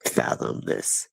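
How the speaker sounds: retold tearful disbelief. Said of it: "the mother is just, like, in tears".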